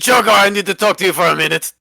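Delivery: hurried and insistent; urgent. Acted. Urgent pull aside.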